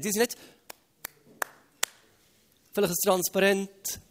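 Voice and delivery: usual speaking voice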